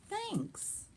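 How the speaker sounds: a timid bear murmuring thanks; shy bear. Acted.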